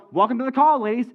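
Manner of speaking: high-pitched showman's greeting; hammed-up host hello; show-host welcome. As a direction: welcome them like you're opening a show. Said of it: "as if I was saying, Welcome to the show".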